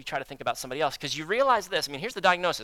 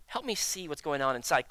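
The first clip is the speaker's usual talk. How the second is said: earnest prayer. Retold or imitated. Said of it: "posture yourself with God and say".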